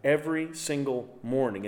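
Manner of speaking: ordinary talk, nothing marked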